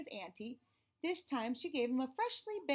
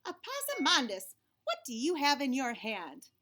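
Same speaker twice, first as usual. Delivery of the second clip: put-on a higher, louder mother calling her boy; suspicious mama; 3 semitones higher, 5 dB louder than usual. Mama eyeing the crumbs in her son's fist, suspicious. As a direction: call him out like a doubtful mother.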